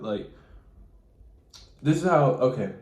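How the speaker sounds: ordinary talk, nothing marked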